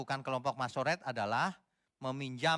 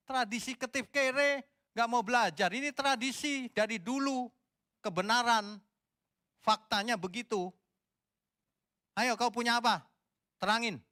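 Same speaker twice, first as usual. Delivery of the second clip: heated challenge; 9 semitones higher, 4 dB louder than usual. Real, not acted. Heated challenge to western theologians.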